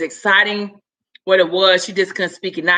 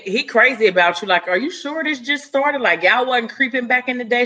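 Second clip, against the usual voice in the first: teasing friend; 5 semitones higher than usual. Retold or imitated. Aria teasing, higher voice.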